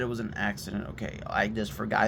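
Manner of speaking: soft, low apology; very calm. Retold or imitated. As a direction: excuse yourself quietly, voice dropped. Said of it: "I'm being very calm about this".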